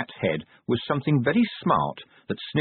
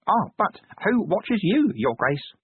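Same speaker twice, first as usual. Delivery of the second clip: brief smile; 10 semitones higher, slower than usual. A narrator's reading. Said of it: "with a brief little smile".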